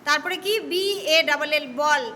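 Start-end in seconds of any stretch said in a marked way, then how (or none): 1.8-2.0 A said as a round অ vowel in "বল". Shown as a demonstration. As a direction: say "বল" with the অ sound. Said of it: "অ এর উচ্চারণ হচ্ছে তো".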